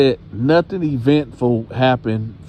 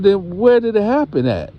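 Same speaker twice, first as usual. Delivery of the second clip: grandma pressing; 9 semitones higher than usual. Retold or imitated.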